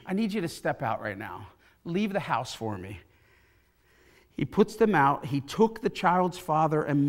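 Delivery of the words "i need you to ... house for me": calm request. Acted. Voices Jesus clearing the room.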